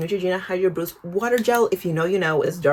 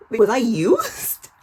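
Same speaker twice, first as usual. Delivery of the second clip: mock whine; 4 semitones higher, 3 dB louder, much slower than usual. Retelling being ghosted.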